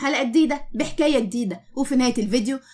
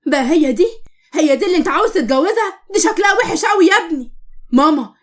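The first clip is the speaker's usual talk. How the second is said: angry scolding; 3 semitones higher than usual. Acted. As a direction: scold her with disdain, voice raised. Mother insults the girl, scolds son.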